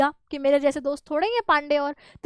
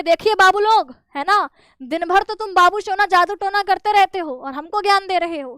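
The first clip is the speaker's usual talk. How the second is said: higher, louder mock anger; flaring up; 4 semitones higher, 4 dB louder than usual. Dwivedi scolding the Babus, higher and louder in anger. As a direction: scold them like an irate editor. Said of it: "Dwivedi जी बिल्कुल भड़क उठे और कहे".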